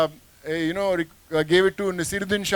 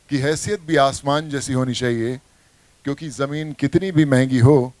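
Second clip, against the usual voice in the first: lower, weighty filmi dialogue line; film dialogue delivery; 5 semitones lower than usual. Acted. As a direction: deliver it like Fateh answering the cop. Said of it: "I reply". (फ़िल्मी dialogue, धीमे और भारी अंदाज़ में)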